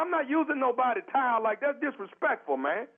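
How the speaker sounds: rising up in offended protest; offended caller raising his voice; indignant outburst. Real, not acted. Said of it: "but lower your voice".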